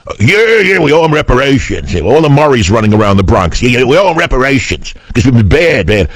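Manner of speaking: mock the big-mouth liberals from New York. Host mocking New York liberals in a lightly whiny voice. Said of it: "I'll hear all the big mouth liberals from New York".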